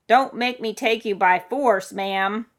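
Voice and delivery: loud, slow official warning; firm warning. Acted. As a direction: lay down the law deliberately. Rescuer warns the stubborn woman.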